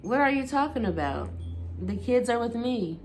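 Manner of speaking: high, falsely innocent reply; mocking innocence. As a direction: play dumb with a sneer. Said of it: "he replied with the mocking innocence".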